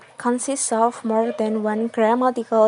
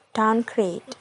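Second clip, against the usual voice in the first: "downgrade" with main stress on "grade"; stress on second word. Shown as a demonstration. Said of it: "The primary stress is in our grade".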